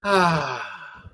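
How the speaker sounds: breathy sighed ah as a voice demo; sighing ah. Shown as a demonstration. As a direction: let out an easy sigh on ah. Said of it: "like a sigh".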